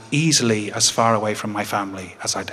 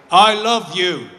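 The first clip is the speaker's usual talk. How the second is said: high, loud, raised-voice declaration; 7 semitones higher, 5 dB louder, slower than usual. Retold or imitated. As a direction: project it to someone hard of hearing. Leaning to hard-of-hearing dad.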